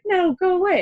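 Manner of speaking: high mock child's shout; mimicking toddler's protest. Mom imitates her toddler telling her to leave, high mock child shout. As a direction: squeak it up like a cranky little kid. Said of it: "And she was like".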